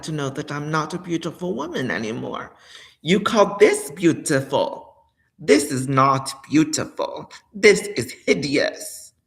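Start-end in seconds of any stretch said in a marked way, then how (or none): 3.0-9.1 disgusted. Real, not acted. Disgusted at own appearance.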